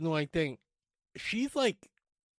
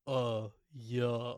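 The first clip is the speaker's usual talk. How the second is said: lower, dopey mock reply; clueless customer; 4 semitones lower, 4 dB quieter than usual. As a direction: imitate a dim customer's blank answer. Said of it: "he was such an idiot".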